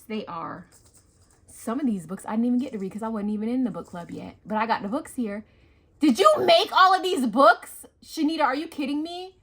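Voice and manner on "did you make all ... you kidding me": amazed. Real, not acted. Asking her friend about the handmade books, loud and amazed. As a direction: stretch it out in amazement.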